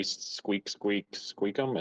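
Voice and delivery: quiet, slow squeaks; soft squirrel squeaks. Pretend. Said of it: "and I say".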